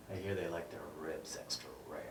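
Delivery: low, soft, rushed aside; quiet and fast. Acted. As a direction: toss it off quietly and quickly. Quick hushed echo line.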